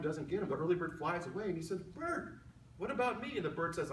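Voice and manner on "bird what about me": worm's plea. Acted. Worm calls after departing bird.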